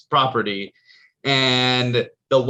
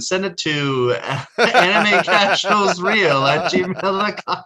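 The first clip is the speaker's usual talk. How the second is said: laughing; 5 semitones higher, slower than usual. Real, not acted. Laughing while giving email.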